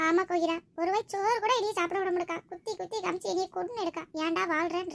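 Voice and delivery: tearful, plaintive lament; sobbing complaint. Acted. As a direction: pour out the hurt, close to sobbing. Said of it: "Kokila ரொம்ப ஏங்கி ஏங்கி அழுவுறாட்டி". (அழுதுகொண்டே புலம்பல்)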